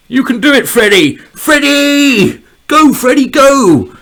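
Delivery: high, loud cheering on a pawn; root for him like a sports fan; building to a high, loud yell; excited cheering. Real, not acted. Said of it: "I got really excited there".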